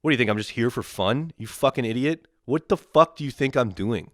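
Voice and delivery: acted indignation at a pushy official; indignant retort. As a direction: retort in outraged disbelief. Imagined angry retort to agent.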